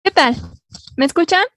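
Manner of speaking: choppy audio breaking up; bad connection. Real, not acted. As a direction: voice cutting in and out. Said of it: "se escucha un poco entrecortado".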